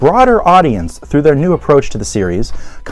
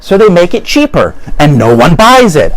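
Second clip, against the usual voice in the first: louder, breaking into laughter; laughing; 5 dB louder than usual. Real, not acted. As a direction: laugh through the repeat.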